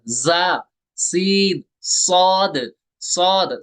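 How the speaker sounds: जा, सीन, सौद said with a sharp hiss; hissing demo of the whistle letters; whistled letters. Shown as a demonstration. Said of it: "इनको सीटी के साथ पढ़ना है".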